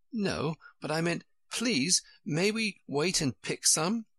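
put-on high, pleading child voice. A narrator's reading. Alice begs the sheep to wait for rushes, pleading. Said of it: "Alice pleaded".

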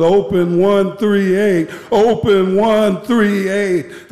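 high, mildly shouted radio order; retold urgent shout. Officer shouting into the radio to get the cell opened, retold urgent shout. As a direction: call it out urgently, drawing out the repeat. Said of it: "We were shouting into it".

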